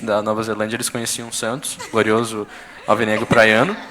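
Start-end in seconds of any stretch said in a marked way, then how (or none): 1.9-3.8 bem mais alto, proclamando o apelido do time; exaltação ao time. Acted. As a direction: anuncia com orgulho de torcedor. (proclamando alto como um hino de torcida)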